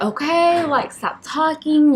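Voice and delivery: urgent, stop-talking outburst; urgent, frantic. Retold or imitated. Impatient with midwife in labour.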